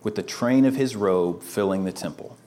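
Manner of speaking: slow, measured reading of scripture aloud. Shown as a demonstration. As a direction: read each line slowly to capture every thought. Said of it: "So reading through that again, trying to read it slowly".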